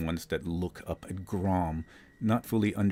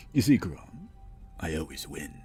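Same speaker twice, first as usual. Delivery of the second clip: put-on old hag. Devil taunts Grom.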